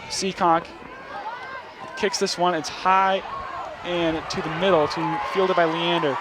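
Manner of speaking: steady play-by-play call, tracking the runner; walk the listeners through each snap as it happens; live play-by-play. Acted. Announcer calling the Bulldogs' drive for the broadcast, measured play-by-play.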